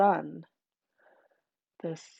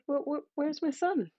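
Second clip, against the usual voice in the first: puzzled father; 7 semitones higher, 6 dB quieter than usual. Acted. Father asking for son.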